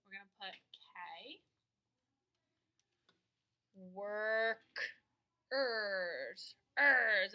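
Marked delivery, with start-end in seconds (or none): 3.7-6.5 Workers said slowly with the er drawn out; stretched out er ending. Shown as a demonstration. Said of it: "most of the time when a word ends with er".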